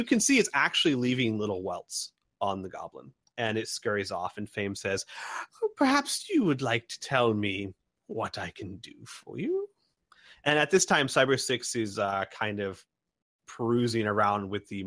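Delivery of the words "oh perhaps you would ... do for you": oily merchant voice. Acted. Fame addressing customer.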